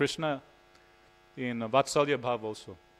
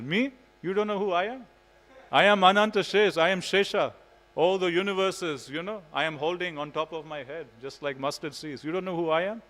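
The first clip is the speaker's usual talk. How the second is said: higher and louder, hammed-up pride; mock indignant boast; 5 semitones higher, 3 dB louder than usual. Balram boasts to Mother Yashoda who he is, higher, louder mock indignation. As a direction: puff up like a proud little brother.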